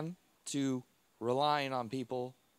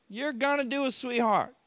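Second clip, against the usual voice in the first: high, loud coaxing yell leaning on gonna; yelling back; 8 semitones higher, 5 dB louder than usual. Retold or imitated. Nurse shouting encouragement while standing him up, high and loud. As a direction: urge him on, stressing gonna. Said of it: "they yell back at me".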